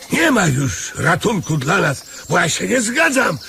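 wyraźnie wyższy, jękliwy głos dziada; błazeński dziad. Acted. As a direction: gra biednego dziada, trochę przesadnie. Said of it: "Niech się pan nie wygłupia". (skarżący się dziad, wyżej i z przesadą)

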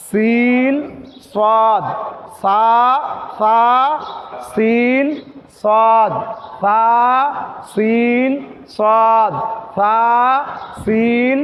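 each সা and সিন said softly with a breathy hiss; soft letters drill. Shown as a demonstration. Quran teacher drilling soft hissing letters for students. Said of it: "তাহলে সাটা নরম করে".

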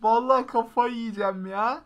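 fed-up gamer; exasperated. Real, not acted. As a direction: swear you're going crazy. Losing it over the game.

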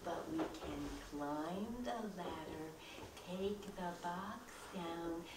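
a hint of Toad, softly objecting; softly, drawing out the ending; doubting Toad.

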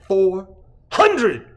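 loud shout back at the crowd; screamed back. Acted. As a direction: yell it back to them. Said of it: "he screamed back".

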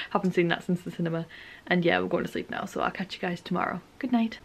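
soft, low late-night voice; quiet bedtime sign-off. Real, not acted. Vlogger saying good night to viewers before bed, quiet. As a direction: keep it down, winding down for sleep.

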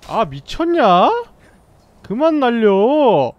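slow, loud furious yell; angry yelling. Real, not acted. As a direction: shout at the enemy in real rage. Raging at game enemy.

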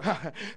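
low, quiet laugh; soft chuckle. Real, not acted. Preacher hesitant to prophesy to the church, soft chuckle. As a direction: chuckle softly under the sermon.

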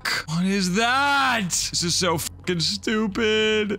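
high, frantic panicked rant; freaked-out outburst, voice way up. Real, not acted. Just jump scared, panicking in a high frantic voice.

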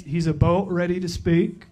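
"a boat" said as a boat in a lightly faked Canadian accent, rising at the end; a weak stab at a Canadian "about"; bad Canadian accent. Introducing a guest pastor, a poorly faked Canadian accent. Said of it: "That was terrible".

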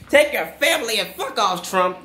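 laughing through the curse; cheerful jeering send-off. Real, not acted. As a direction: giggle as you tell him off. Repeats curse while laughing.

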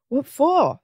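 puzzled mum. A narrator's reading. Simon's mum questions his demand for money, puzzled. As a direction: throw it back high, with a swoop on "for".

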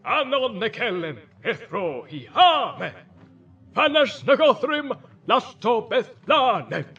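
high, loud, ringing incantation; wizard's imperious chant, drawn out at the end; commanding voice. Acted. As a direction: declaim a spell to force a door open. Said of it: "he said in a commanding voice".

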